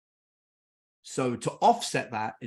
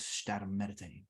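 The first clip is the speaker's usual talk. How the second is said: hushed shushing; 5 semitones lower, 11 dB quieter than usual. Retold or imitated. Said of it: "and he goes".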